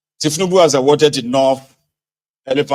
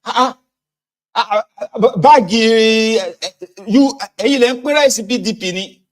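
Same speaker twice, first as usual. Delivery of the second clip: much higher, worked-up yelling; panicked accusing voter; 10 semitones higher, 4 dB louder than usual. Retold or imitated. Voter confronting the rice sharer, high and agitated. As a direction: cry out at the rice sharer in alarm. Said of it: "They say".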